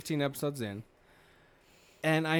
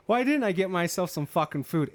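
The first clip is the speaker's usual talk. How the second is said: whiny complaint; 6 semitones higher, 5 dB louder than usual. Retold or imitated. Quoting her high complaint.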